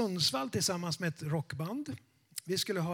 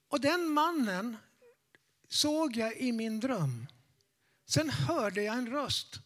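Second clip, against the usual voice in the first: put-on old lady telling a dream; 3 semitones higher than usual. Old lady recounts her dream.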